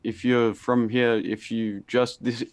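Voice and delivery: stumbling, stuck on words; tripping over the words, restarting; stuttering. Real, not acted. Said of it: "I'm stuttering".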